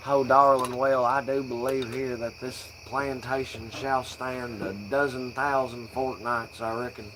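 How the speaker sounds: mock genteel Southern plantation voice; Southern belle accent. Stoner trying to be Southern as possible, Southern accent. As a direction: ham up an old Southern lady. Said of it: "try to be Southern as possible".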